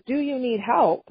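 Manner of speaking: grudging, unwilling offer of help; a hint of not wanting to help; reluctant offer. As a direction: ask as if you don't want to. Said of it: "the tone of his voice tells me that he really doesn't want to help".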